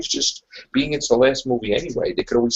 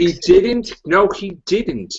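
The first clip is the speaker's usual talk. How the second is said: raised, emphatic denial; insistent contradiction; 6 semitones higher, slower than usual. Real, not acted. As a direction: cut in firmly, then stretch the denial. Cutting off a listener's objection.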